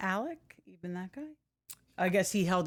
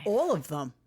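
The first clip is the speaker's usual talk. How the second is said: whispering. Real, not acted. Joins the whispering.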